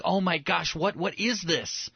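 imitated awed excitement; excitement bubbling up. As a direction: act out wonder welling up inside. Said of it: "starts to well up and bubble up".

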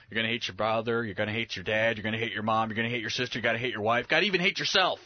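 deadpan list, jumping up on the last item; Jesus. Acted. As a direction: reel it off evenly, then punch the ending. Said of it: "And then he goes".

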